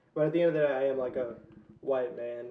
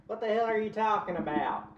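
thick Southern twang, pitched up; thick Southern accent; 5 semitones higher than usual. Retold or imitated. Imitating kids they grew up around, in a thick Southern accent. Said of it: "very thick, like".

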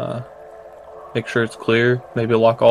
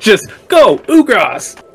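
calling out; 9 semitones higher, 7 dB louder, much slower than usual. Pretend. Summoning giant Ugras like Pokemon.

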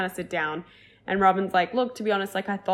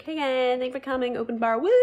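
higher-pitched mock toast ending in a whoop; party-host cheer; 5 semitones higher than usual. Robin greeting guests at toast time, party-host cheer. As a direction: playfully imitate a woman whooping up her party.

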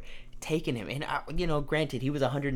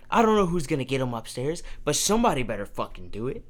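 mom chewing out; faster than usual. Retold or imitated. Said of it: "She starts chewing us out".

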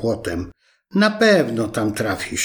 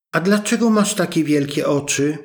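put-on wondering little girl; 4 semitones higher than usual. Girl at the bedside asking grandma, in a high wondering child voice. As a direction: let the surprise open the question. Girl questioning disguised wolf.

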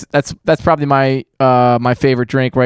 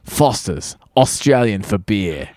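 lower, slow commercial announcer; ad tagline voice; 4 semitones lower, 3 dB quieter, slower than usual. Retold or imitated. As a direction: deliver it like a beer ad slogan. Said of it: "this commercial that's really famous".

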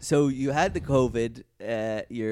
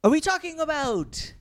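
rising, slowing, incredulous questions; each question more astonished; mounting surprise; 9 semitones higher, 5 dB louder, slower than usual. Real, not acted. Escalating mock shock.

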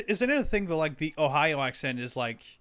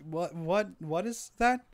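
baffled; 5 semitones higher, slower than usual. Retold or imitated. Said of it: "at first I was like".

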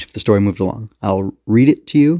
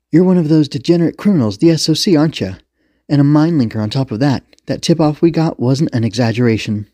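higher, louder scornful officer; brash, pitched-up accusation; accusing police commander; 6 semitones higher, 4 dB louder than usual. Acted. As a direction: lay into a suspect with contempt.

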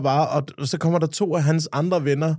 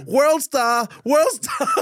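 high mocking shout, drawn out; high-pitched hollered taunt; shouting bystander; 11 semitones higher, much slower than usual. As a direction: crow it like a gleeful phone-filming onlooker. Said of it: "bare råber".

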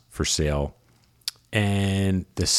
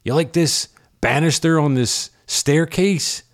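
the seller; 8 semitones higher, slower than usual. Retold or imitated. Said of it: "And he would say".

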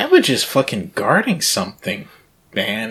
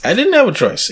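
emphatic echo; 13 semitones higher, 4 dB louder than usual. Real, not acted. Echoing friend's line emphatically.

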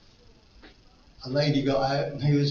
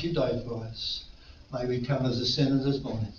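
prayer. Acted. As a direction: pray gently over the congregation. Closing prayer.

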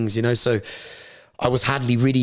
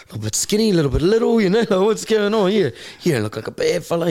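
high, teasing mock appraisal; chaplain impression; 8 semitones higher than usual. Former inmate imitating the chaplain sizing him up, high put-on voice. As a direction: imitate the chaplain with pitch lifted right up.

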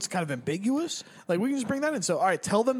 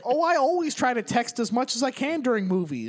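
put-on North Dakota accent; 5 semitones higher than usual. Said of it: "North Dakota voice for her".

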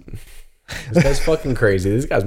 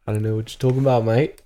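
put-on British accent; faster than usual. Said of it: "you have a British accent".

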